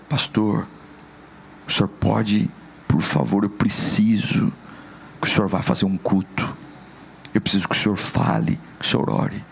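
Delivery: low, hushed pleading that sinks to a whisper; bereaved parent phoning the pastor, low and hushed; grieving parent. Retold or imitated.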